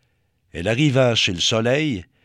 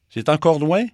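tag; 6 semitones higher, 6 dB louder than usual. Acted. Petite lune interroge Mars.

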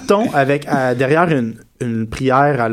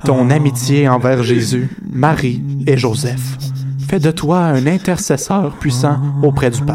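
prayer reading. Acted. Reads prayer solemnly.

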